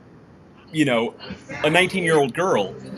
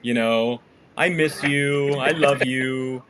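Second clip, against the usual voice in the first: sweet talk to grandma; 3 semitones lower, much slower than usual. Retold or imitated. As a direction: coo it gently like you miss her. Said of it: "you're typically like".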